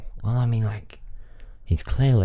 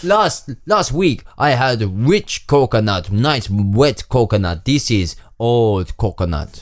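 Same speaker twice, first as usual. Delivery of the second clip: put-on African-sounding accent. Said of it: "South African".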